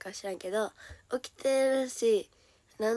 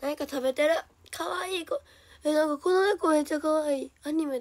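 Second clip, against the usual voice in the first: higher, louder burst of delight; delighted gushing; 6 semitones higher, 6 dB louder than usual. Real, not acted. Streamer gushing over a cute cat drawing, delighted. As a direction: gush over something adorable.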